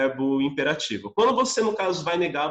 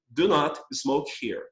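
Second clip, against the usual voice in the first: slow formal model; slower than usual. Shown as a demonstration. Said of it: "estou negando o ato imperativo".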